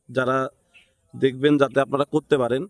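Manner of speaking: ordinary delivery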